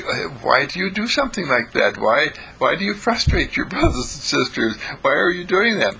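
mild, puzzled reproach; puzzled Mister Candle. Acted. Mister Candle questions Howie.

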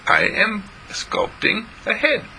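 put-on young John announcing his work; proud little boy.

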